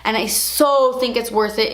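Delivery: normal talking voice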